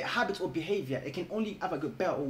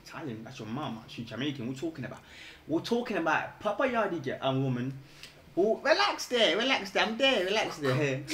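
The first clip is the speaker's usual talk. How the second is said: retold phone reply. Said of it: "I'm like".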